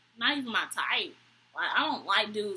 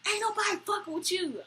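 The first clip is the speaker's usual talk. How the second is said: high-pitched imitation of the date, talking tough; a hint of a swaggering dude; mock tough-guy date; 9 semitones higher than usual. To the woman he's mad at, mocking his tough talk.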